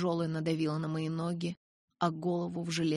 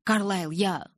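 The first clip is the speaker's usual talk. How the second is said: wavering, left unfinished; start, then break off unsure; hesitant; 2 semitones higher, 5 dB louder, slower than usual. A narrator's reading. Edward unsure he can do it, hesitant. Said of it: "колебался Эдвард".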